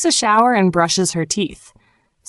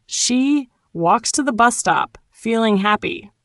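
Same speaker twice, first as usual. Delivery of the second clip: with a smile; 3 semitones higher than usual. Shown as a demonstration. Teacher models it for learners, with a smile. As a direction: smile through each spaced-out chunk. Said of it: "say it with a smile".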